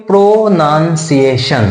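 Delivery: প্রোনাউন্সিয়েশন drawn out slowly, part by part; careful sounding-out. Shown as a demonstration. Teacher introduces the topic word, careful slow sounding-out of প্রোনাউন্সিয়েশন.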